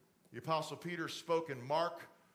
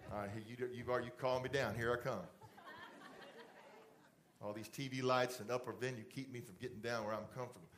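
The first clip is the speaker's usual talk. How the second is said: much softer, offhand and quicker; casual aside; 7 semitones lower, 6 dB quieter, faster than usual. Real, not acted. Pastor stepping down to talk closer, softly. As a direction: chat close up, off the platform.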